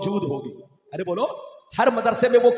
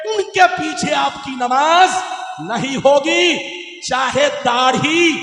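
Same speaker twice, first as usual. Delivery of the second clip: impassioned preaching; 2 semitones higher, 4 dB louder than usual. Real, not acted. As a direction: preach emphatically to a big crowd. Preaching at full force to crowd. (जोशीली तक़रीर)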